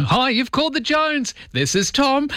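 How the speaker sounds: put-on sing-song like an old home answering machine; mimicking a cheery dad on an answering machine greeting. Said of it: "everybody would leave a message, you know".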